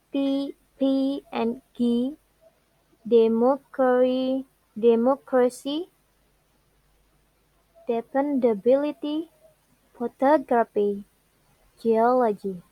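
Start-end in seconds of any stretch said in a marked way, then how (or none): 3.1-12.6 MOC in Democracy, BIL in dependability, TOG in photography, OL in geology; stress on antepenultimate syllable. Shown as a demonstration. Teacher giving rule examples, third-from-last syllables stressed. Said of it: "penultimate syllable".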